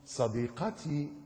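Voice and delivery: slow, soft, drawn-out croon; mock lovesick sheep. Youth radio sheep calls to his girlfriend, mock lovesick. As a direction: stretch it softly like a smitten sheep. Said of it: "يطلع لك خروف".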